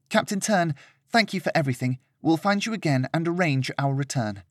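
polite but lofty thanks to the captain; lightly voiced haughty lady. Serena thanking the ship captain, lightly voiced lady.

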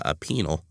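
"penal" said as PEE-nul; correcting pronunciation. Shown as a demonstration. Host corrects co-host's word, careful "penal". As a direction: hesitantly model "penal", two syllables, low. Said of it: "I'm pretty sure it's pronounced".

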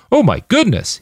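high-pitched, put-on astonishment; exaggerated fake surprise; mock surprise. A narrator's reading. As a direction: feign shock for show. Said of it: "he said in mock surprise".

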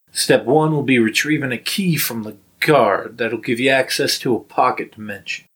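put-on lightly accented heist planner; Alden's corrected accent. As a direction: lay out the plan in a light character accent. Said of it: "sorry, slipped into the wrong accent".

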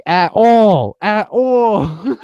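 high, loud hype-man echo; Funk. Retold or imitated. Co-host imitates the radio host backing up a rapper, exaggerated holler. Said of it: "Funk was like".

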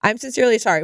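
fast, rote recited apology; scripted tone. Retold or imitated. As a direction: rattle it off like a memorized twelve-step script. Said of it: "this scripted, like, tone of".

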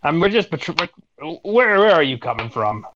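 stumbling, flustered guard breaking off and restarting. Acted. Flustered guard questions a traveler, stumbling over the words. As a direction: fumble the challenge, mildly flustered. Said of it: "he just looks flustered".

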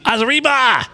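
high put-on Asian accent on "Arriba"; mock Asian accent. Shown as a demonstration. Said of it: "how would you say arriba as an Asian".

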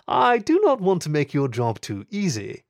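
cool, teasing upper-class voice; smooth aristocratic lady. Acted. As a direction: tease him, unhurried. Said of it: "Her voice was smooth, almost aristocratic".

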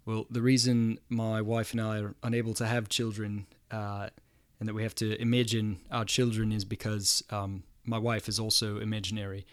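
lightly attempted New Zealand accent, low and understated. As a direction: try a deadpan New Zealand comedian's accent. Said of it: "try to do the accent".

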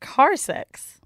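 breathy unvoiced whisper; hushed naughty whisper. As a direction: say it like a dirty secret.

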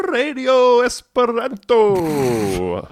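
long drawn-out high announcer call; slow, high, hammed-up radio jingle voice. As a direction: sing it out like a station ident. Mock radio station jingle.

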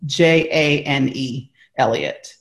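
letters of Jane spelled slowly one by one; slow spelled-out name for clarity. Shown as a demonstration. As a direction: spell it J, A, N, E carefully. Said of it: "it's Jane Elliott".

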